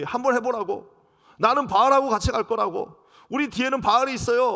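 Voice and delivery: loud, high, cocky defiance; defiant taunt. Acted. Rebellious Israel taunting God, loud defiant dare. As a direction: dare him to try it.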